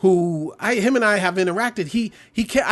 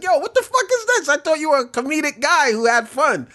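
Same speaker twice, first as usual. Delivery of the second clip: shocked listener; 7 semitones higher than usual. Retold or imitated. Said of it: "They're gonna be like".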